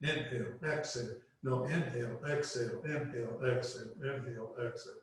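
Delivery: quick breath of fire cues; rapid nasal breath pumps. Shown as a demonstration. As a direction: pump the breath fast through the nose. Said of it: "And you do it rapidly".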